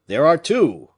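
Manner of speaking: crying out. Acted. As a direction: shout the news across the deck. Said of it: "cried he".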